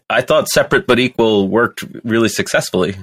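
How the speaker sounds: deadpan mock-earnest claim; sarcastic. Co-host feigns belief to tease the panel, sarcastic. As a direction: say it straight-faced, meaning the opposite. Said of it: "I'm saying that sarcastically".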